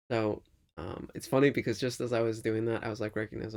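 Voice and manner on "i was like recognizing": ordinary delivery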